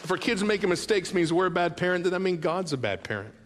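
rising preacher's appeal; fervent preaching. Real, not acted. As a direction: plead with the parents to give themselves grace. Preaching climax on grace.

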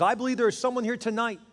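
put-on high preaching North Carolina accent; Billy Graham. Preacher to the stadium crowd, ringing North Carolina accent. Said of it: "in that great North Carolina accent that he has".

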